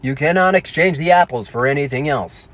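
measured robotic announcement; Stephen Hawking. Acted. Delivery hologram refusing to exchange the apples, robotic impression. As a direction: stiff speech-synthesizer voice. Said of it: "Hawkins re-, rings the doorbell".

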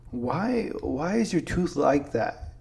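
a hint of a puzzled small child, drawn out; high-pitched little kid. Four-year-old cousin asking about a tooth, lightly high-pitched kid voice. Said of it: "like, a high-pitched voice".

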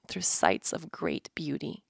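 hushed, slow whisper. Acted. Host reading about beauty to listeners, dropping to a whisper. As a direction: let the words fall to a breath.

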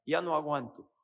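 weary, exasperated moaning; a mock fed-up complaint; complaining sigh. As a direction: groan it out like you're fed up. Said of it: "Es una expresión de queja".

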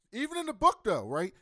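jumping in with high, loud excitement; excited. Real, not acted. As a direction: burst out with it. Excitedly recalling the book.

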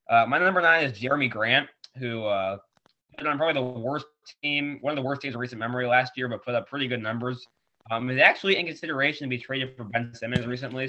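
talking with a tissue up the nose; stuffed-up nose after a nosebleed; blocked nose. Real, not acted. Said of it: "I just have a tissue stuck up my nose 'cause I had a bloody nose".

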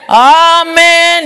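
loud, high, drawn-out amen; a congregation's sung-out reply; churchgoers' amen. Retold or imitated. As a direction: answer like the whole congregation at mass. Congregation answering in the Catholic church.

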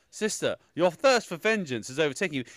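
lightly hammed-up goddess line; a restrained mocking take on a solemn goddess; mock film goddess. Viewer quotes the sister he could not stand, lightly mocking. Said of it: "Why do you sound like that?".

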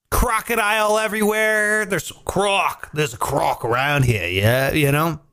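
lightly put-on Aussie local; mock Australian accent. Host telling the crocodile story, light mock Australian accent. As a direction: slip into a playful Australian twang.

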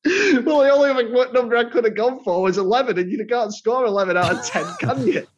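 laughing while explaining. Real, not acted. Laughing through own joke.

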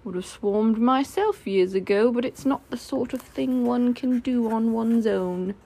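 slow, drawn-out grumble from Eeyore; glum Eeyore. Acted. Eeyore to Christopher Robin about the swarm, glum and slow. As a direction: take it slowly, a lightly voiced gloomy donkey.

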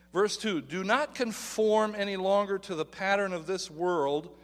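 measured reading of scripture. Acted. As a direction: read the verse with weight. Reads scripture aloud.

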